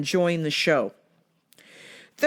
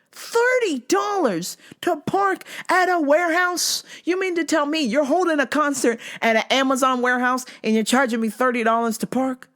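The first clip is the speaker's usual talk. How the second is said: outraged disbelief; 8 semitones higher than usual. Retold or imitated. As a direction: plead your outrage at the price. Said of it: "But I was like".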